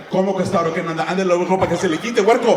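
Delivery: building into a mock bark; a hint of a scolding father; angry dad. Dad scolding his son in Spanish, mild mock anger. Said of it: "My dad was just like".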